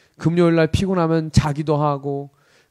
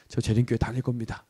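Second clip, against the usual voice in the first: subdued recruit's answer; 7 semitones lower, 9 dB quieter than usual. Retold or imitated. Timid recruit answers commander in office.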